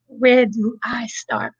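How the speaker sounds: breathy whisper to herself. Real, not acted. Starting her testimony, she whispers to herself. Repeats opening line as whisper.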